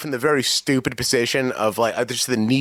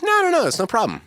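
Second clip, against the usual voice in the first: higher, dismissive mom; 8 semitones higher, faster than usual. Retold or imitated. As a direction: brush it off like mom. Mother voiced in story.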